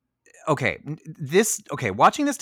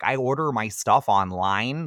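put-on a light Ohio accent, slow and flat-voweled; lightly imitating a Midwestern Ohio accent. To a friend, showing Charlize's Ohio accent, slowly. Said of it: "That sort of Ohio".

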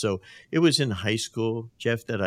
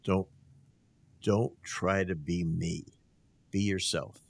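measured coach's cadence. Retold or imitated. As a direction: space the words out like a deliberate old coach. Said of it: "this amazing, uh, cadence when he talked".

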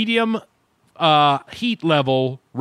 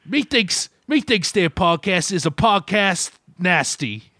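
put-on higher, slow theatrical old-fashioned Brit; mock olde English; 4 semitones higher, slower than usual. Host mocking British speech, theatrical olde English accent. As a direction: ham it up like a Shakespearean snob.

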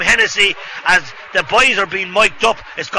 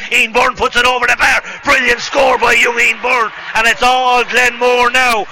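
higher, louder building call; excited score call; 5 semitones higher, 3 dB louder than usual. Real, not acted.

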